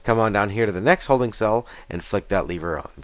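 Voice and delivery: ordinary talk, nothing marked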